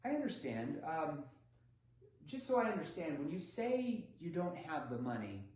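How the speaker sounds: calm, curious question, easing off at the end; gentle probing tone; curious clarifying tone. Shown as a demonstration. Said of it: "pay attention to my tonality here".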